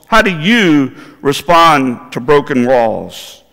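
"you" drawn out with emphasis; slow question leaning hard on "you"; stress on YOU. Real, not acted. Contrasts I, you, church.

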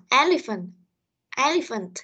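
Elephant modelled with a strong first syllable; corrective model pronunciation. Shown as a demonstration. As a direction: say Elephant carefully, EL punched, falling after. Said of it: "mình sửa cái từ này". (phát âm mẫu Elephant, nhấn âm đầu)

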